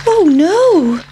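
high, loud little voice in alarm; pancake's worried cry. Acted. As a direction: squeak it out, frightened. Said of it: "thought the pancake".

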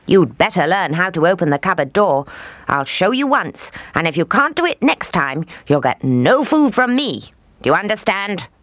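put-on high, scolding old witch; threatening witch. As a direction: threaten her with no food.

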